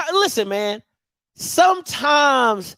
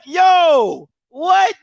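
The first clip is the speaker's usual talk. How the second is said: raised, louder incredulous reaction; mock disbelief; 4 semitones higher, 4 dB louder than usual. Acts out own shocked reaction.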